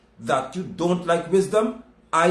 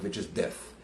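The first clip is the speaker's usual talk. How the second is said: whispered punchline; 8 semitones lower, 10 dB quieter than usual. Acted. Sermon punchline dropped.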